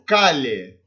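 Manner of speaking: "cale" with ll as Portuguese lh. Shown as a demonstration. Teacher giving the LL example, LH sound in "cale". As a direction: say "cale" as ca-lye, palatal l. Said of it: "Som de L H".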